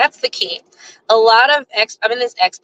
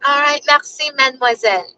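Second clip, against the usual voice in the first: sweet, higher-pitched French courtesy; extra sweet; 5 semitones higher than usual. Retold or imitated. Older woman addressing a young cashier, extra sweet. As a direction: imitate a warm, sugary "mademoiselle". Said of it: "doing it just to be a little warm".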